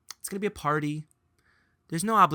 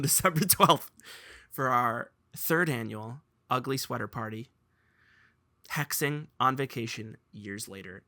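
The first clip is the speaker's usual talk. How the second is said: normal talking voice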